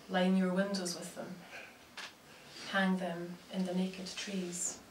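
measured recital with long pauses between phrases; poetry reading. Acted. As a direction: let each image land, then pause. Reads own poems aloud.

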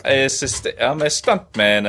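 attempted Spanish accent, slowly; thick Spanish accent. Shown as a demonstration. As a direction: put on a rough Spanish accent. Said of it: "Thick, thick Spanish accent".

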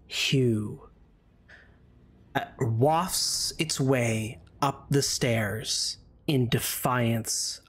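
slow atmospheric narration; story narration. Acted. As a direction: paint the scene slowly. GM describes creeping mist.

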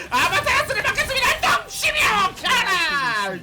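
ordinary talk

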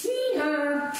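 playful donkey hee-haw; a donkey's hee-haw for the kids; donkey bray. Pretend. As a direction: bray like a donkey, pitch jumping. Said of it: "donkey kicks".

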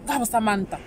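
"Gabo Samantha" with the th as a plain t, sa-man-ta; local way of saying Samantha. Shown as a demonstration. Showing viewers the home version of Samantha, sa-man-ta. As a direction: drop the th and say samanta. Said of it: "this is how we say them".

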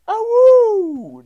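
loud high wolf howl. Pretend. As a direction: howl like a werewolf. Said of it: "I should say".

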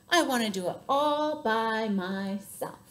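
slow, spaced-out insistence on "all by myself"; determined little elephant. A narrator's reading. Little elephant refusing the bird's help, slow and determined. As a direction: draw out "all by myself", word by word.

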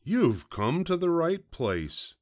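high-pitched, eager storybook fox; gleeful cry. A narrator's reading. Fox greeting a delicious piglet, eagerly crying out. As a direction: welcome the prey with lifted pitch. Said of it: "cried the fox".

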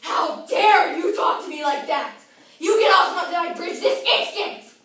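furious, very high troll screaming; yelling and screaming. Acted. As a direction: scream it in outrage at full volume. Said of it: "began yelling and screaming".

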